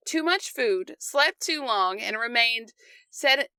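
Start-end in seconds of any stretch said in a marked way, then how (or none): 3.1-3.5 stumbling over the word sedentary; tongue-tied, breaking off mid-word; stuttering. Real, not acted. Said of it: "I am stu-, stuttering".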